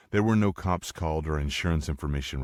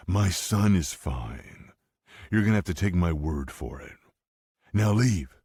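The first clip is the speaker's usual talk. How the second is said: stern order; 3 semitones higher, 4 dB louder than usual. Acted. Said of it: "Mike ordered".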